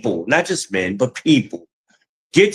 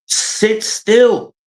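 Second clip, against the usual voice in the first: exasperated call; 10 semitones higher than usual. Retold or imitated. Telling neighbors to sit still.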